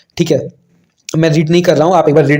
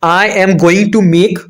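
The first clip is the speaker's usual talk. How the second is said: slow dictation; 3 semitones higher, much slower than usual. Shown as a demonstration. Teacher reads question aloud slowly.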